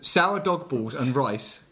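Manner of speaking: slow, each word punched; punching every word. Shown as a demonstration. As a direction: announce it like a title. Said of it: "is our title".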